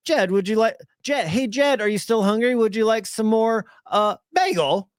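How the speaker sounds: a lightly put-on British accent asking his son; mock British dad. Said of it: "Dad's like".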